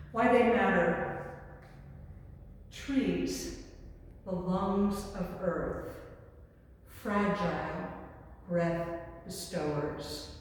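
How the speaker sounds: spare haiku, each phrase set apart by pauses; haiku recitation. Acted.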